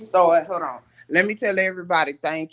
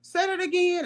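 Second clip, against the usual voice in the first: mock stern nurse mode; 13 semitones higher than usual. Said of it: "she was like".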